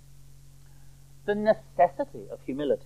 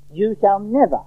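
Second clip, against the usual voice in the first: "never" stressed with a falling tune; firm, raised refusal landing on "never"; very emphatic; 4 semitones higher, 4 dB louder than usual. Acted. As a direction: lean hard on "never", pitch raised. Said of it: "very emphatic".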